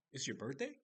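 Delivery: enthusiastic. Retold or imitated. Reacting to the maintenance man's birthday, enthusiastic. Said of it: "kinda enthusiastic".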